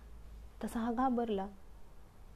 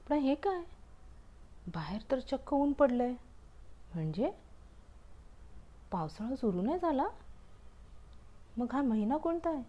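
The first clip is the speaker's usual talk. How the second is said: puzzled surprise; 5 semitones higher than usual. Acted. Umbrella puzzled to see sunshine.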